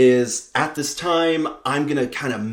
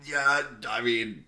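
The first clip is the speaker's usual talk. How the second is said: awkward fumbling. Retold or imitated. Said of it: "he's just like".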